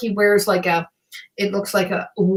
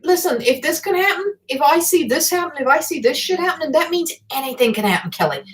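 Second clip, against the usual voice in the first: quoted grumpy grandpa insisting; 6 semitones higher than usual. Retold or imitated. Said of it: "he said".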